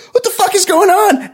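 Miyagi yelps at the bulldozer; mock Miyagi outburst. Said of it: "Miyagi's like".

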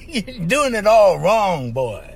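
slow, laughing cartoon drawl; half-laughing through the cartoon line, slow; cartoon rooster quote. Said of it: "that cartoon cracked me up".

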